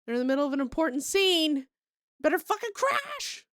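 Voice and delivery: mock alarm from a glitchy server AI; robot server voice. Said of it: "I was like".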